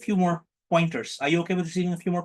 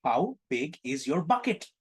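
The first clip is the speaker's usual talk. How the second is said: the question said slowly, letting "bucket" rise; slow it down so it lands; teasing slow repeat; slow, drawn out; 3 dB quieter, slower than usual. Shown as a demonstration. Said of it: "If you misheard that".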